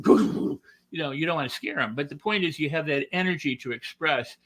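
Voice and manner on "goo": overdone gush. Shown as a demonstration. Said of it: "as opposed to going".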